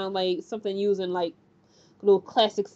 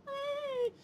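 put-on baby cry; 14 dB quieter than usual. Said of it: "it's crying like".

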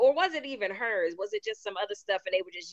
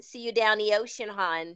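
put-on South Baltimore accent. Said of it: "She has that accent".

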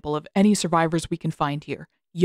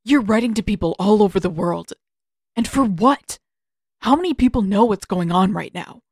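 angry confrontation; 4 semitones higher, 4 dB louder than usual. Acted. Zuko confronts his uncle.

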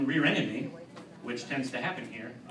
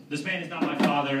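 raised voice, held back; mild retold yell; 3 semitones higher, 5 dB louder than usual. Comic describing yelling in a supermarket, mild mock yell. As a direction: call it out as a mock protest. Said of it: "I'd yell".

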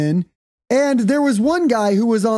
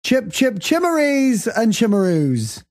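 put-on jokey British accent in a podcast; mock British accent; slower than usual. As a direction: silly fake British nonsense. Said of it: "I'm going to be talking in a British accent".

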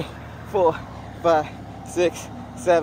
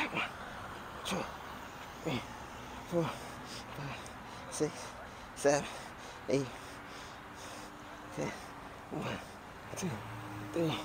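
counting reps through the strain; straining through each rep; doing push ups; 15 dB quieter than usual. Real, not acted. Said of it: "My right shoulder feel like it's gonna pop out".

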